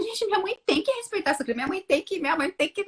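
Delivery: high-pitched, quick indignant insisting; insistent demand. Retold or imitated. Talking of expectations of her mother, indignantly insistent.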